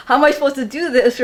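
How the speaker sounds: giggling at her own helplessness; laughing. Real, not acted. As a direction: laugh through the question.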